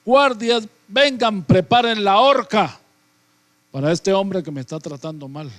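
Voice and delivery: high, loud furious royal shout; a king roaring for his guards; enraged king. Acted. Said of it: "el rey se exalta". (rey furioso gritando, agudo y fuerte)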